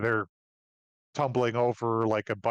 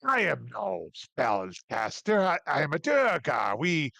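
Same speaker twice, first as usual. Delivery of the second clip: proud dwarf; 4 semitones higher than usual. Acted. Dwarf denies casting spells.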